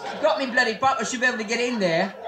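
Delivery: mock-indignant English accent; hammed-up British complaint. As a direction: protest as a put-on Englishman. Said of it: "How do we know you're from England?".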